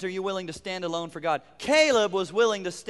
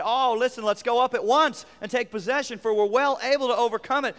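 higher, louder rallying call; eager urging; 5 semitones higher, 3 dB louder than usual. Acted. Caleb urging the frightened people onward, eager. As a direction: fire them up to go now.

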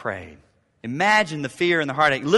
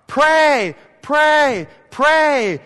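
high, insistent repeated prays; urgent pray; 9 semitones higher, 7 dB louder, much slower than usual. Acted. Preacher urging worried parents to pray, urgent. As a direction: press each word in urgently.

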